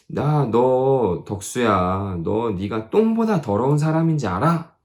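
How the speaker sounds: slow, drawn-out needling question; rising mocking taunt to a stranger; a stranger's taunting question, slow and rising. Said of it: "여러분을 처음 만나는 사람이".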